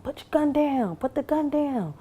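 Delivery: police shout at the gunman to drop his gun, loud and high; police command shout. Retold or imitated. Police ordering gunman to drop weapon.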